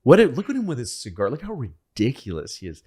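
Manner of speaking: mocking FDR. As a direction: giggle at Churchill behind his back. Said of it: "he says to Stalin".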